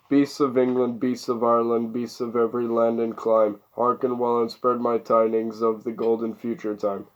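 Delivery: spoken song lyrics, measured phrasing; verse read aloud. A narrator's reading. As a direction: recite rhymed verse line by line.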